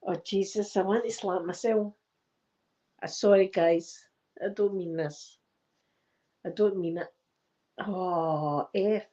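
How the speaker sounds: subdued apology while fighting real tears; emotional, apologetic. Real, not acted. Apologising to viewers for getting upset, tearfully emotional. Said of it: "I did get dead emotional today".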